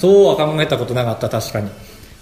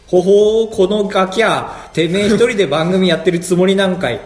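japanese delinquent tough talk; 5 semitones higher than usual. Retold or imitated. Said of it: "そんな風に見えました".

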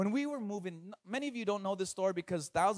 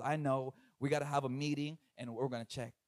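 evasive stalling; 7 semitones lower, 6 dB quieter than usual. Acted. Mall staff stalling, acted.

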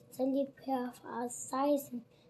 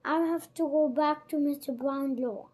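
shouting; 2 semitones higher, 6 dB louder than usual. Acted. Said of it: "shouted Oliver".

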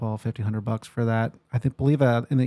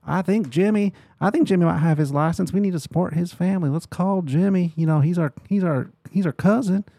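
higher-pitched put-on Queen Creek accent; small-town country accent; 6 semitones higher than usual. Realtor imitating locals who'd rather call cousin Jimmy, put-on small-town accent. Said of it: "have an accent like this".

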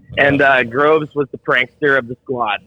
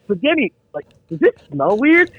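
lightly raised, faux-innocent ask; innocent question; 6 semitones higher than usual. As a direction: play it sweet and casual, a bit higher. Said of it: "He's like".

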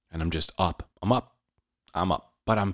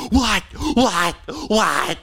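high, louder repeated what; a hint of a flustered girlfriend; panicked girlfriend; 12 semitones higher, 4 dB louder, much slower than usual. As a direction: mimic the partner asking over and over. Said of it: "Jade's like".

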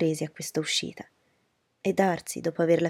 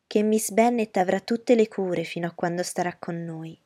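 cold courtesy; 5 dB louder than usual. Acted. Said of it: "con fredda cortesia".

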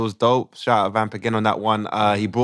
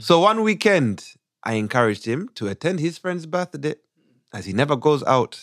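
put-on Ugandan accent; 3 semitones higher than usual. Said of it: "we do it in a Ugandan accent".

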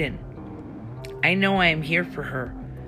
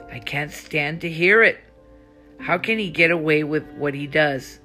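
louder, exasperated outburst; acted anger; 6 dB louder than usual. Anna rants about Sadie defending Dante, louder. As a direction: push it out like she's had enough.

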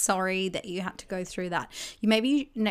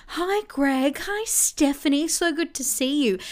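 chirpy greeting; 6 semitones higher than usual. Retold or imitated. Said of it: "it'll be".

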